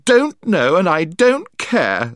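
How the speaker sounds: put-on upset girl sobbing at Eustace. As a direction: stammer it out through tears. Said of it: "sobbed Jill".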